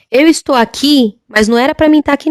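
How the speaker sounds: half-voiced mock yell, stretched then hurried; imitated shouting. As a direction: cry out in protest, held back. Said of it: "Ele gritava assim".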